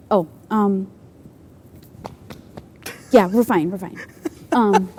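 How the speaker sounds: shy host fumbling through small talk; Justin impression. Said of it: "my Justin impression".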